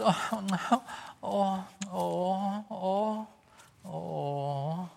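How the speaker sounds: high, fretful cries of oh; hammed-up fussing parents fading away; mock parental panic. Parents panicking over discipline.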